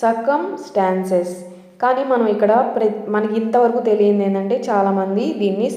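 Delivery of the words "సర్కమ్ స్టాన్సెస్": careful model word; listen and repeat. Shown as a demonstration. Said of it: "ఎలా పలుకుతున్నాను మళ్ళీ వినండి".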